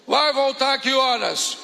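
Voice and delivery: pergunta gritada, lenta e mais alta; tio bravo. Retold or imitated. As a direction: cobre a hora como pai bravo. (o tio cobra a hora, gritando devagar)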